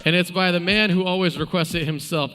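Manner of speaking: loud, rallying announcer voice; arena announcer. Acted. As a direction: address the crowd like an arena host.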